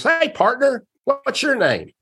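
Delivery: put-on high, bright hello to a new kid; friendly Brooks greeting. Ballplayer welcomes the nervous new bat boy, high and friendly. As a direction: greet him like a cheerful veteran.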